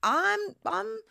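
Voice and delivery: light dude voice, quick; playful impression of the easygoing ex; imitating ex. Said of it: "And he was like".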